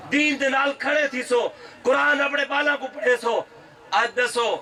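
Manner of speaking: full-voiced rally preaching; kraftvolle Predigt. Real, not acted. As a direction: preach it out to a big crowd. Preaches to a crowd.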